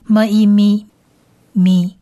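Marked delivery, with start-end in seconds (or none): 0.0-0.9 "么", "一", then blended into "咪"; teacher's blending demo of "么一咪"; sounding out syllable. Shown as a demonstration. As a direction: sound out "么一" and join it as "咪". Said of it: "所以是咪".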